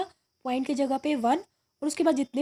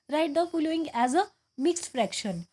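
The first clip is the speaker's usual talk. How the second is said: each word read out very slowly; slow dictation; much slower than usual. Shown as a demonstration. Teacher reading the worksheet question to students, very slowly. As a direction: read the question slowly so the class can follow. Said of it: "teacher reads question aloud".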